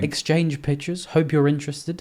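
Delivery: mock businesslike question; mocking rising tune. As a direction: parrot his words back as a baffled question. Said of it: "like it's LinkedIn or something".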